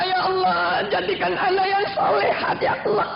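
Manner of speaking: lightly acted weeping plea; tearful prayer. Mother praying for her daughter, mock tearful. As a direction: rise into a mock sob. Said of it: "Ibunya berdoa".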